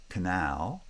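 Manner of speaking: canal with a reduced first syllable; light opening, stressed second syllable in canal; stress on last syllable. Shown as a demonstration. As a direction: lean on the end of canal. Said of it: "the one syllable gets stressed".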